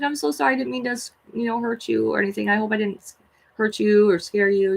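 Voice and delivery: high, soothing sorry to a small creature; tender apology. Retold or imitated. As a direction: reassure it gently. Apologizing to the spider.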